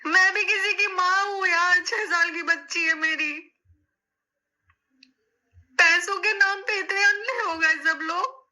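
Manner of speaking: angry outburst. Real, not acted. Bitter outburst at the roasters.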